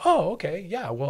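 light relieved. Retold or imitated. Acting a relieved adult reply.

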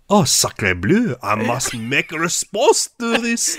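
mock French accent. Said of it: "Chris Marker like".

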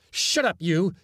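high, loud angry cry; cried out. A narrator's reading. Man whirling about at the laughter, high loud cry. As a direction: yell it at an unseen heckler. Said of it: "he cried".

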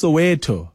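"Soweto" said so-WEH-toh; correct Soweto pronunciation. Shown as a demonstration. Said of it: "my understanding is it's".

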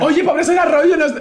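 tut-tut like a prim mother; mother scolding. Retold or imitated. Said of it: "la pobre dice".

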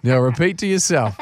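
lively storyteller reading a letter; reading an email aloud. Acted. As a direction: read it like a funny letter. Reads out the diver's email.

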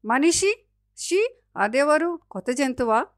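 high-pitched, wary questions; frightened baby monkey. A narrator's reading. Baby monkey hiding behind a tree asks about man, fearful. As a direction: ask timidly, pitch jumping up. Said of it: "భయంగా చెట్టు వెనక్కి వెళ్ళి దాక్కుని అడిగింది".

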